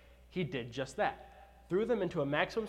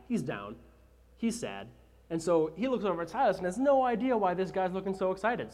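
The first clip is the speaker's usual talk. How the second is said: normal talking voice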